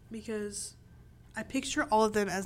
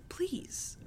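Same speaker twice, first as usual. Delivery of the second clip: breathy first please, then drawn-out begging; mock pleading; 3 semitones higher, much slower than usual. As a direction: beg the author in exaggerated exasperation. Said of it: "But I'm just like".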